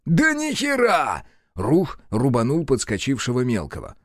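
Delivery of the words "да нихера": high, slow, altered protest; high exclamation. Acted. Рух snaps back at Захар during the retreat, high and slow. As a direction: scoff at the hope of escape. Panicked retort in battle.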